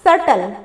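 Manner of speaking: "सटल" with no b before the t; silent B. Shown as a demonstration. Teacher answering how it is pronounced, "सटल" with silent B. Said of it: "इसका pronunciation जो होता है वो क्या है?".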